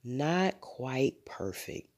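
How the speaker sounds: slow, soft, drowsy murmur; sleepy father, barely awake; sleepily. A narrator's reading. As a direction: mumble it half asleep. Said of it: "said father sleepily".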